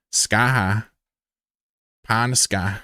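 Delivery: light drawled rhyme; put-on drawl. Shown as a demonstration. Streamer riffing rhymes for chat, mild drawl. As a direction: let the rhyme roll out in a drawl. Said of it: "until I'm talking like this".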